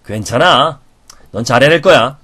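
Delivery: warm, firm reassurance for repeating; encouraging demo line; encouraging model. Shown as a demonstration. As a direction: comfort them so they believe it. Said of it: "따라해보세요".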